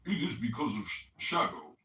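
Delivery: lightly put-on nasal voice, reading aloud; mock a friend's nasal voice while reading; a hint of a nasally Chicagoan read; mock Coptic. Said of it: "imitate Coptic as I read".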